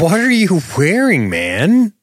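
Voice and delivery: high, mocking call at him; a high teasing jab; teasing shout. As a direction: tease him loudly about the outfit. Teasing the actor's outfit.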